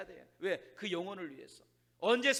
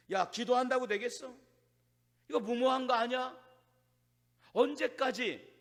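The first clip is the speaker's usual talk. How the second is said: louder, slightly raised incredulous questioning; mock protest; 3 semitones higher, 4 dB louder than usual. Preacher voices a doubter questioning endless prayer, mock protest. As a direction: challenge it, stretching the last question. Voicing doubts about God's command.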